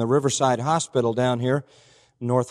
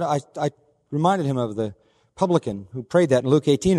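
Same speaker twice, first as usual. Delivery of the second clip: ordinary talk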